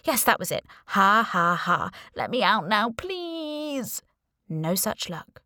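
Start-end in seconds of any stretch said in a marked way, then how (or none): 0.9-1.9 louder mock ha ha; forced laugh. A narrator's reading. Girl pretending she's being punked, a hollow mock laugh. 2.2-4.0 pleading. A narrator's reading. Trapped girl begging to be let out, a fading plea.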